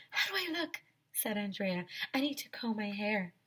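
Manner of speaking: high, soft fussing; a hint of prissy girl; vain girl. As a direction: primp and worry. Andrea fussing over looks.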